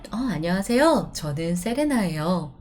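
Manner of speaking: fast 안녕하세요, 저는 세레나예요; quick polite greeting. Shown as a demonstration. Introducing yourself to a new group, brisk and polite. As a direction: rattle off a polite self-introduction. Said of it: "when you introduce yourself".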